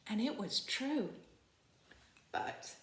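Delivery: put-on storybook read-aloud for kids; story narration. Librarian reading the picture book to children, storytelling voice. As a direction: read it warmly to a class of children.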